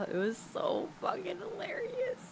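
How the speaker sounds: hushed giggly whisper. Real, not acted. Confiding to the viewer how funny it was, whispering. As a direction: whisper it like a secret.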